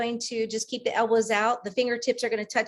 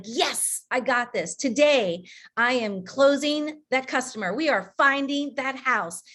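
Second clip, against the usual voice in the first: with conviction. Shown as a demonstration. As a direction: sell it, you believe it. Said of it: "say it with conviction".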